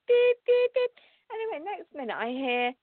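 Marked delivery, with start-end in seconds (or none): 0.1-0.9 high mock electronic beeps, beep beep; imitated machine beeping. Telling viewers about the bank machine, high imitated beeping. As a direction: chirp out the machine's beeping alarm.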